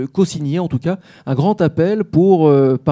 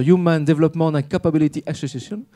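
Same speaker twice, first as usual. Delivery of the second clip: English name read in a heavy French accent; self-mocking French accent on the English title. Shown as a demonstration. Host reads the association's English name in a French accent. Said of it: "avec mon bel accent".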